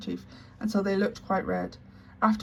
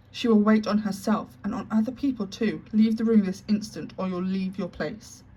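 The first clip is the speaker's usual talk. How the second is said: angry threat; 4 dB louder than usual. Acted. Headmistress threatens maid.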